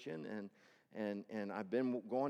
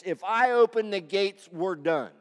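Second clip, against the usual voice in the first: If I open the gates, we're done, cried loud and high, slow; desperate cry; 7 semitones higher, 14 dB louder than usual. Acted. King of Israel crying to God, loud despairing plea. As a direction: belt out the king's despair.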